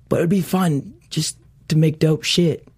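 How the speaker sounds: light imitation of an English accent, a bit slow; a hint of Hawk's English accent, relaxed. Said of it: "but he has an English accent".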